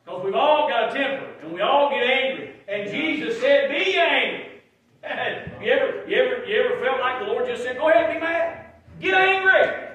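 high, loud preacher voice; full-force preaching. Real, not acted. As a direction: drive it home to the congregation, pitch climbing as you go.

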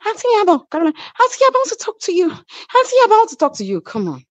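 high, insistent mimicked calling; high-voiced retelling of a pushy appeal; imitated pleading. Imitating Caroline's urgent pleading approach.

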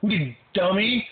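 high, slow mocking whine; high sneering viewer voice; mocking commenters. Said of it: "everyone's just like".

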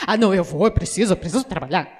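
lightly voiced worker, rushing; mock hurried excuse. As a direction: hurry through it like an excuse. Imitating deaf worker's answer.

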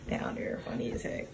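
breathy whispered aside. Real, not acted. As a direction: whisper it through a laugh. Laughing whisper.

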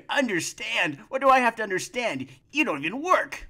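high indignant retort. Acted. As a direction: fire it back, offended. Marital quarrel flares up.

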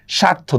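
স্বার্থ with no b or w after sh; silent b. Shown as a demonstration. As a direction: start স্বার্থ with a plain "sha". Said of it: "বফলার উচ্চারণ হচ্ছে না".

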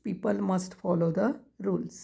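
each word spaced out for writing; slow dictation. Shown as a demonstration. Teacher dictating to students, very slow word by word.

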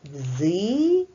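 "Дзигою" said syllable by syllable with a rising end; split into syllables. Shown as a demonstration. Teacher dividing the word into syllables for second graders, syllable by syllable. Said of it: "Ділимо на склади".

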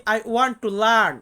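very slow, each word of "I want to learn" spelled out, stress on learn; slow teacher demo. Shown as a demonstration. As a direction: model "I want to learn" for learners, dragging every word, landing on learn. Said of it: "ইংরেজিতে আমরা বলি". (খুব ধীরে, learn শব্দে জোর দিয়ে শেখানো)

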